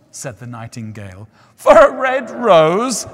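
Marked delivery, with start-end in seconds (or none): 1.6-3.0 high, loud, slow scoffing disbelief; incredulous cry. A narrator's reading. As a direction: creatures mocking the idea. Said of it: "they cried".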